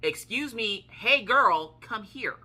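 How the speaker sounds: high, loud summons; imitating a scolding shout; imitated angry yell. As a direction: yell it like a cross grandmother calling a child. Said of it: "she would yell it at me".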